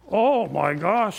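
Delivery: drawn-out lightly voiced woman; alarmed exclamation.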